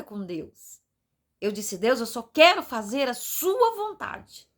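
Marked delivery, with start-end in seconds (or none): 1.8-4.5 slow pleading prayer. Retold or imitated. Quoting her own prayer to God.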